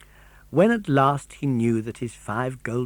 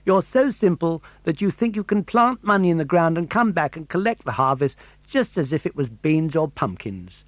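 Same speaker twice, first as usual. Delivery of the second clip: a hint of a high scolding bird; lightly voiced lecturing pigeon; 3 semitones higher than usual. The pigeon scolding Pinocchio about honest work, lightly voiced. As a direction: lecture the fool, a touch mocking.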